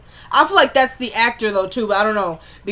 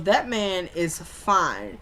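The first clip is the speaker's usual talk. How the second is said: slow flirty drawl; 2 semitones lower, 5 dB quieter, much slower than usual. Retold or imitated. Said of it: "She goes".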